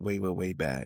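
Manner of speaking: ordinary delivery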